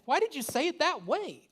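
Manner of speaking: high, loud exasperated scold; loud inner-critic version of the question; scolding myself. Retold or imitated. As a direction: demand it of yourself, loud and high. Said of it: "It's just like".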